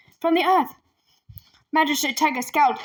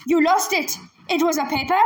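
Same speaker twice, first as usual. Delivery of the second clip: roaring; 3 semitones higher than usual. Acted. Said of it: "the magistrate roared".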